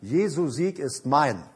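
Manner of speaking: put-on slow, measured children's-rhyme recital; a touch of resolve, each word drawn out; brave refusal. Child answering the devil in a rhyme, mildly brave. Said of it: "sage ich mutig".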